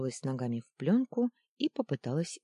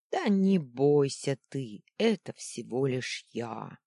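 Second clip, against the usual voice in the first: good-natured laughing; 4 dB louder than usual. Acted. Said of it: "добродушно захохотал кто-то".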